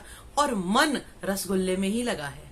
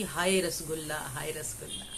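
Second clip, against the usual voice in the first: mock pining, trailing off softer; a lightly acted sigh of craving; greedy longing; 4 semitones lower, 4 dB quieter than usual. Preacher mimicking someone craving sweets, greedy longing. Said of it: "लालच मत करो".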